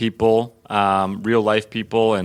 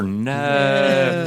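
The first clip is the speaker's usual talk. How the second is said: put-on Southern accent; 3 semitones higher than usual. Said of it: "the Piper".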